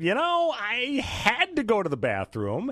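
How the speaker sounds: high, slow, whiny excuse; whiny woman voice. Retold or imitated. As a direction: mimic a defensive woman. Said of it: "along the lines of her saying".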